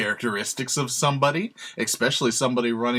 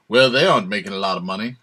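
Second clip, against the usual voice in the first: loud, rushed mock-politician put-down; Trump impression; 2 semitones lower, 7 dB louder, much faster than usual. Critic of a candidate mimicking his dismissals, half-hearted impression. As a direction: attempt a blustery impersonation, quick and loud. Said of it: "I could try a Trump".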